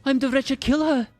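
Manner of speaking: menacing villain. Acted. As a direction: play the dark double as cold menace. Villain monologue.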